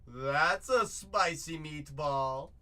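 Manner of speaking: drawn-out booming catchphrase; hammed-up exclamation. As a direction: savor it like a cartoon chef. Hypes a good card.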